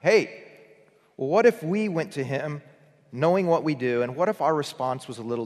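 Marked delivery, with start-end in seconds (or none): 0.0-0.4 mock cry for help, louder and higher; panicked yell. Preacher acting disciples screaming at Jesus, mock panic. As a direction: call out like frightened disciples in a storm. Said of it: "and screamed at him".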